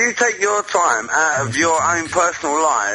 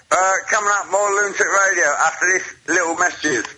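lightly put-on announcer delivery, a little higher; radio host's break announcement; 4 semitones higher than usual. Caller asked to take the show to break, playing radio announcer. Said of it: "take us to break".

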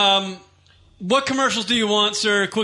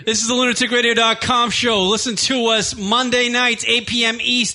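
wrestling promo. Acted. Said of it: "let's do a promo".

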